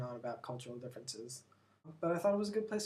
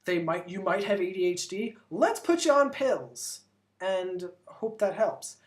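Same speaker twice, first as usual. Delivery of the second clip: slow, louder breezy doctor voice, pills for everything; mock American doctor; 3 semitones higher, 6 dB louder than usual. Vlogger mocks how American doctors prescribe, slow and loud. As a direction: play the careless pill-pushing doctor. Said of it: "in the States, it's like".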